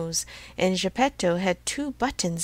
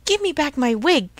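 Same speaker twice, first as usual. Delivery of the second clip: raised, higher surly demand; surly shout; 7 semitones higher, 6 dB louder than usual. A narrator's reading. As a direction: shout it crossly, as narrated dialogue. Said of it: "shouted Mastro Antonio in a surly voice".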